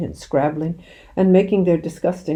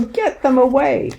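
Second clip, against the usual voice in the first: high, loud panicked cry; screamed; 9 semitones higher, 5 dB louder than usual. A narrator's reading. Mister Hazel screaming to get the birds away, high loud panic. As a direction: yell in desperation. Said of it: "screamed Mister Hazel".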